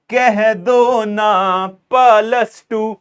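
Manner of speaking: very slow, stretched playful chant; drawn-out catchphrase. Pretend. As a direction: stretch each word like a meme line. (बहुत धीमा, खींचकर मज़ाकिया अंदाज़ में)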